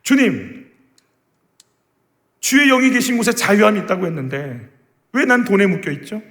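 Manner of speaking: high-pitched, insistent questioning; frustrated plea to God. Acted. Believer bound by the world questioning the Lord, frustrated pleading. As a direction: press God with one exasperated why after another. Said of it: "그 답답함".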